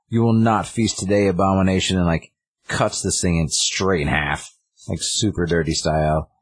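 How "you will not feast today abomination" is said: slightly higher, lightly voiced barbarian hero; retold battle challenge; mock heroic warrior. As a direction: declare it at a monster, half in jest. Conan confronts a monster in retelling.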